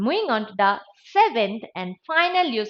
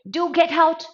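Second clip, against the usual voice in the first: raised but restrained request; softened command; 5 semitones higher than usual. Shown as a demonstration. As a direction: ease the order, less force. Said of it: "It softened the tone".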